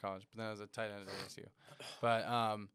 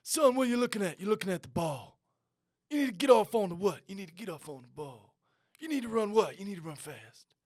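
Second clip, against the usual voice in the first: high raspy coach barking questions, much higher and louder; 8 semitones higher, 10 dB louder than usual. Retold or imitated. Imitating the coach yelling at his player, raspy and high. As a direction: bark the question, then answer it yourself. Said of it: "He'd be like".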